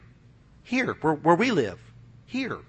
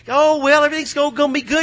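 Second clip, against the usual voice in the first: breezy dismissive; 4 semitones higher, 3 dB louder, faster than usual. Retold or imitated. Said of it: "everybody's so".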